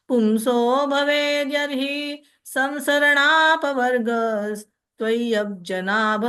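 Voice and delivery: measured devotional recitation; Sanskrit verse recitation. Acted. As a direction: recite it like a temple prayer.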